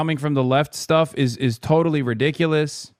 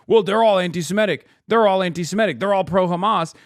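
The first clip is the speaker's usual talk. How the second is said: mock Republican accuser; 5 semitones higher than usual. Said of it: "When Republicans were cynically".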